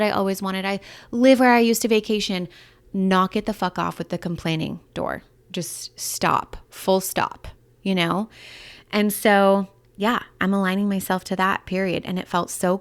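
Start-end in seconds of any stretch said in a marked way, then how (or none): 5.5-7.5 whispered self-scolding. Real, not acted. Scolding herself about complaining.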